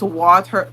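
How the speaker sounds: "water" with a clearly sounded R at the end; pronouncing the R. Shown as a demonstration. Vlogger quotes how others hear the word, R sounded. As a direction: say "water" ending on a full "er". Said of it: "'cause where I'm from".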